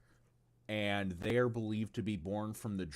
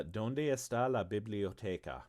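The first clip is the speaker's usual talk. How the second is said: tourist Spanish. Shown as a demonstration. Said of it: "That is my Spanish".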